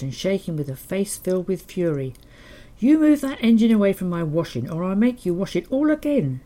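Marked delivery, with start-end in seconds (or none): 2.8-6.4 furious mother, loud and high; angry shout. Retold or imitated. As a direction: shout it like the wrath of God. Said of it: "she shouted".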